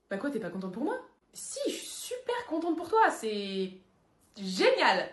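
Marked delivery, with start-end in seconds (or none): 1.3-5.1 forced happiness. Acted.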